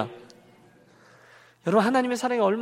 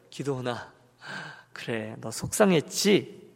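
soft, low, slow consoling voice; hushed tenderness, as if comforting a hurt child; compassionate; 7 semitones lower, 6 dB quieter, slower than usual. Acted. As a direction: gently acknowledge the hurt. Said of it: "지극한 연민의 눈으로".

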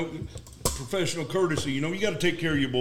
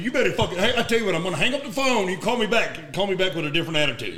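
1 angry retort; 5 semitones higher than usual. Retold or imitated. Retold telling off.

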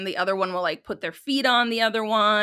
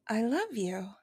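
put-on little baby voice; 7 dB quieter than usual. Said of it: "he has a little baby voice".

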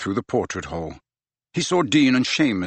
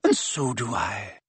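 softer, slow and gentle; kind and soft; 5 dB quieter than usual. A narrator's reading. Professor comforting weeping Hagrid, soft and kind. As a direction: reassure him gently.

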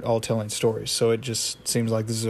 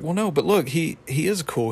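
higher voice, pleading the doll's case; Pops; 5 semitones higher than usual. Retold or imitated. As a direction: protest in a naive, raised pitch. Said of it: "And then Pop's like".

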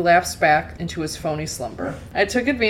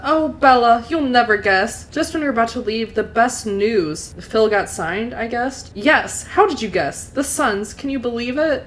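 higher-pitched, excited mother; excited gushing; 5 semitones higher, 4 dB louder than usual. A narrator's reading. Mother tells daughter that Phil got signed, excited. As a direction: share the big news, bubbling over.

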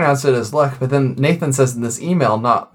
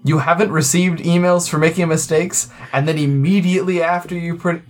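mock solemn reading; 4 semitones higher than usual. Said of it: "We're gonna get more emails if I don't say this right".

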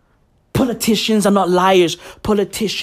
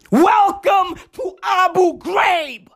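mock sinister welcome; 9 semitones higher, slower than usual.

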